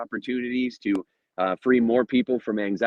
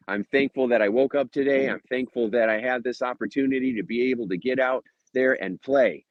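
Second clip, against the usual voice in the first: renewed thankful affirmation; more fired-up; 2 semitones higher than usual. Shown as a demonstration. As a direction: say it like you mean it.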